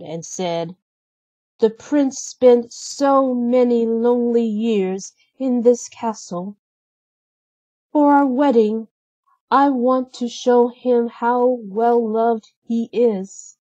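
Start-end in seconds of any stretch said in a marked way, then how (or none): 1.6-13.6 lightly higher Belle voice, gently voiced. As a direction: read Belle's lines a touch higher than the narration. Narrator voices Belle in story.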